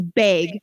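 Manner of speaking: "bag" with a Wisconsin vowel; friend's Wisconsin accent. Retold or imitated. Imitating a friend from Wisconsin, "bag" in a Wisconsin accent. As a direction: say "bag" as a Wisconsin speaker would. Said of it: "the only way you can tell she has, like, an accent".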